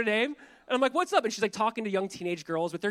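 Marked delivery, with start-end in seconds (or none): 0.9-1.2 acted high, loud hello; perky greeting. Youth pastor greets a girl from his group, perky. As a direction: pitch it up for a casual greeting. Retold greeting to startled teenager.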